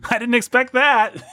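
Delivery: high, laughing astonishment; mock surprise. Host acting surprised by the Marx Brothers, mock surprise. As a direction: squeak it up in pretend amazement. Audience reacting to absurd premise.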